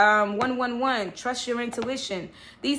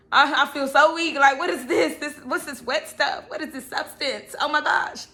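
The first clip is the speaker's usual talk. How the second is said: lightly hammed-up bewilderment, pitched higher; mock self-talk; 4 semitones higher, 4 dB louder than usual. Capricorn who hates crying talks to self, mock bewilderment. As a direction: play at being baffled by your own tears. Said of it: "You know how we talk to ourselves".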